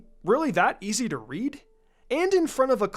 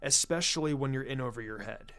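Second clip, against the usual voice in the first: put-on lower, grave older man's voice; serious elder's advice; 5 semitones lower, 6 dB quieter than usual. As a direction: counsel her quietly and seriously.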